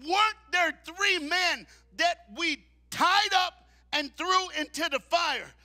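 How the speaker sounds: high, loud, slow astonishment; the king can't believe his eyes; amazed king. Acted. King asks his advisors in amazement, loud and slow.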